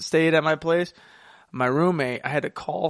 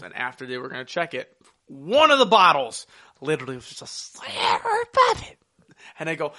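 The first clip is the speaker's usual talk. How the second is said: ordinary talk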